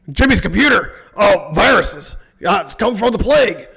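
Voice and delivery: lightly put-on conspiracy ranter; a hint of a mock alarmist host; Alex Jones. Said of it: "start doing Alex Jones stuff".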